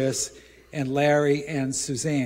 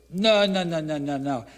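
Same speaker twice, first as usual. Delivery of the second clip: mock bag lady refusing; 2 semitones higher than usual. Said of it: "She goes".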